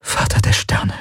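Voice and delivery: unvoiced awed whisper. A narrator's reading. Kirai realises the danger to the reactor, whispered. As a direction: whisper it under the breath. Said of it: "flüsterte sie".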